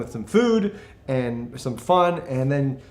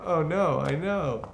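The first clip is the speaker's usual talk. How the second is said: Australian accent; 3 semitones higher, much slower than usual. Shown as a demonstration.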